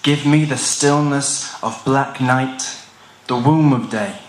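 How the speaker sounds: deliberate, solemn verse with long pauses; poem recitation. Acted. Poet recites a heavy, personal poem about fearing dawn, solemn recitation. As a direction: declaim each line and let it settle.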